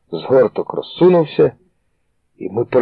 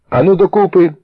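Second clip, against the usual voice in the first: higher, louder barked command; menacing order; 9 semitones higher, 4 dB louder than usual. A narrator's reading. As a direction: herd them together. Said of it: "грізно наказав Шакула".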